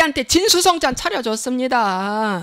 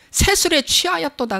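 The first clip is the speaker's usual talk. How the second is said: quoting scripture; 5 semitones higher than usual. Retold or imitated. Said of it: "그랬어".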